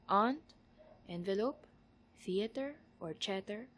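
word list in a Tagalog accent; mild, unexaggerated Tagalog-accented English. Shown as a demonstration. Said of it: "Tagalog accent that I can muster".

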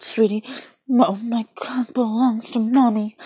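forceful possessive insistence; possessive demand. Acted.

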